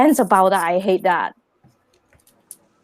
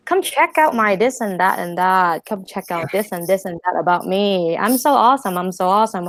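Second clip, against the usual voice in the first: mocking braggart. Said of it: "except for everyone is".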